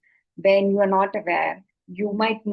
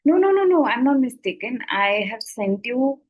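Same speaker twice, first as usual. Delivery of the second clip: quick high protesting no no no; insistent protest; 4 semitones higher, 3 dB louder than usual. Retold or imitated. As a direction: insist loudly, brushing it off. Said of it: "So he said".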